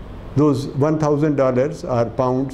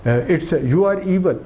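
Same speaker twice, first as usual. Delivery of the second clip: imitating a defiant girl; 4 semitones higher than usual. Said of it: "And she says".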